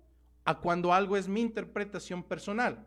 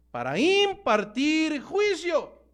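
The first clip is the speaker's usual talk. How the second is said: raised, very drawn-out declaration; solemn proclamation; 5 semitones higher, 3 dB louder, much slower than usual. Real, not acted. Preacher announces the Lord returns to judge, solemn proclamation. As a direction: stretch each word out as a pronouncement.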